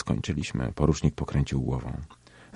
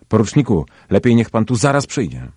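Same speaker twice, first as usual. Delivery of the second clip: louder and higher, calling to the next room; shouting over shoulder; 6 semitones higher, 6 dB louder than usual. A narrator's reading. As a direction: call urgently over your shoulder. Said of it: "krzyknął przez ramię". (głośne wołanie przez ramię, wyżej)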